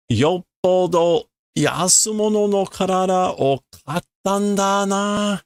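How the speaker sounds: a hint of a snide stranger; mocking character. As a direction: sneer at a cheap body. Character mocks a cheap body.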